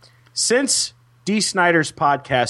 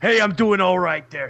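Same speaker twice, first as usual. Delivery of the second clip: lightly voiced rock star impression; co-host plays a rock singer, a hint of rasp; playing a rock singer; 5 semitones higher than usual. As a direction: do the rocker persona.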